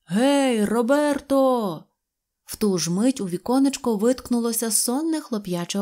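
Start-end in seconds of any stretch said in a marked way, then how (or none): 0.1-1.8 higher, long-drawn holler; calling out. A narrator's reading. Switchman rousing his son from the hut, calling out. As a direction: call insistently to someone indoors. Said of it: "гукнув стрілочник".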